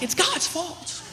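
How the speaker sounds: laughing, then bursting into a shout; a giggle turning into a loud mock yell; laughing joke. Joking retort to teacher in story.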